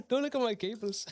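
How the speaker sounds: laughing through the words; sheepish laugh about messy cables. Real, not acted. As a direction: giggle it out, embarrassed. Embarrassed about cables on camera.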